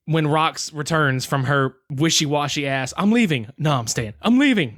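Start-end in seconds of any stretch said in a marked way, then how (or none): 3.0-3.5 raised-pitch declaration of going; higher, showy wishy-washy threat; mock announcement. Mocking Rox's flip-flopping, alternating takes. 3.6-4.1 lower, deflated change of mind; dropped-pitch reversal after a showy threat; mock backtracking. Mocking Rox's flip-flopping, alternating takes. 4.2-4.8 high, showy declaration; raised-pitch exaggerated threat to go; mock dramatic exit. Mocking Rox's flip-flopping, alternating takes.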